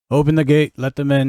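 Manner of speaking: loud order called down from above; calling down an order. Acted. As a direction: shout it down to the gate. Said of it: "you hear a voice call down".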